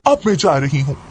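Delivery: lightly voiced childlike mad girl, coaxing; a hint of a little-girl plea. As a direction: nag mother like an eager schoolgirl. Mad girl talks to mother.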